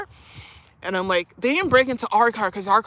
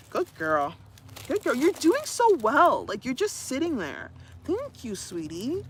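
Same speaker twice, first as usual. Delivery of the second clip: praising the puppy; 5 semitones higher than usual. Real, not acted. Owner praising her puppy for sitting still, high and sweet. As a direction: coo encouragement to a good dog.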